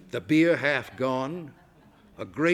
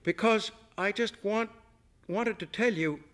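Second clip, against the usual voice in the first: wrought up; 8 semitones higher than usual. A narrator's reading. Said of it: "so wrought up she could barely go on".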